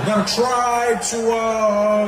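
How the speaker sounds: halting voice full of stretched pauses and "uh"; Barack Obama. Acted. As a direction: stall between phrases as if buffering. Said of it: "his voice sounded like it was buffering".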